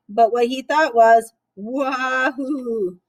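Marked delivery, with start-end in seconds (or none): 1.5-3.0 joyful whoop. Acted. Duck's joyful thought.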